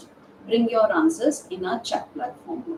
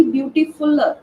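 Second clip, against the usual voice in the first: wrong form; 3 semitones higher, 4 dB louder than usual. Shown as a demonstration. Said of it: "Comparative word can't be".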